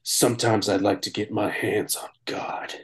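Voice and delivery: unvoiced whisper of a movie line; whispered quote. Quoting a movie line to friends in a whisper. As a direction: breathe the line out without voice. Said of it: "It's like".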